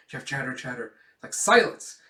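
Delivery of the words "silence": loud, raised order; acted disciplinarian shout; stern command. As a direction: silence a chattering class. Schlag quiets the class.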